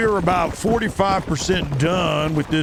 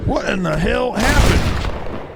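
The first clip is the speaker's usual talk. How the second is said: shouted cowboy voice; 9 semitones higher, slower than usual. Acted. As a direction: yell it like a startled cowboy. Ambushed, shouting in game.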